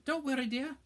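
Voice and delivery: high, bright witch voice up top; kindly old witch. A narrator's reading. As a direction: coo at the children like a trolley witch. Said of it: "said the witch".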